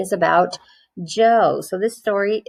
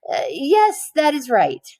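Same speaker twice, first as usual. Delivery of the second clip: reluctant teacher; 7 semitones higher than usual. A narrator's reading.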